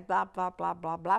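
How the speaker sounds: lightly imitated baby babbling; repeated simple syllables, like a babbling baby; baby babble. Shown as a demonstration. Doctor showing how a four-month-old sounds, babbling. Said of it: "ele balbucia, então o bebê de quatro meses".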